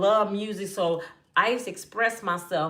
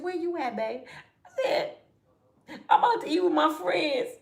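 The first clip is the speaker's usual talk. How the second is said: sweetened phone voice; 9 semitones higher than usual. Retold or imitated. Sweet phone talk after fight.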